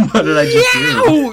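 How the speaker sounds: squeaky high laughing question. Retold or imitated. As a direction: break into laughter mid-line. Retold shooter realizing, laughing.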